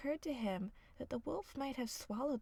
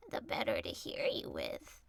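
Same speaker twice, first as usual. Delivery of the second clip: far lower, rumbling wolf; deep wolf voice. A narrator's reading. Wolf in grandmother's bed, far lower. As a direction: growl it low as the wolf.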